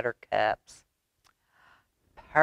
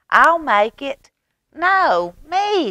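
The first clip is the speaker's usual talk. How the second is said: put-on eager shouting kids; 11 semitones higher, 7 dB louder, slower than usual. Children competing eagerly.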